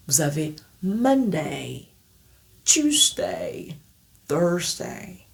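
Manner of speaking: "Monday, Tuesday, Thursday" with the day glide; "Tuesday" whispered in the drill. Shown as a demonstration. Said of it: "maintenir la prononciation".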